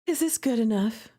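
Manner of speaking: gentle read-aloud of the heroine's lines and narration; story reading. Acted. Streamer reading a romance visual novel to viewers, gentle storytelling.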